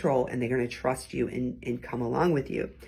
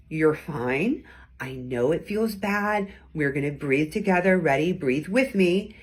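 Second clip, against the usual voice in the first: calm reassuring. Retold or imitated. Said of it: "my tone communicated that I knew what I was doing".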